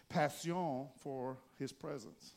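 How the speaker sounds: "Passion" said pass-YON in fake French; playful French-style "Passion", stress on the end; mock French. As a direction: put a pretend French accent on "Passion". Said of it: "feel like I actually know French".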